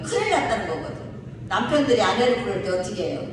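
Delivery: ordinary talk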